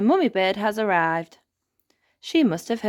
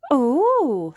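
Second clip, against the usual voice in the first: smiling oh; 8 semitones higher, 6 dB louder than usual. Acted. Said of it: "smiles Holly".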